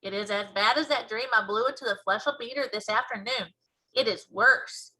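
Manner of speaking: lightly voiced big friendly giant, earnest; BFG voice.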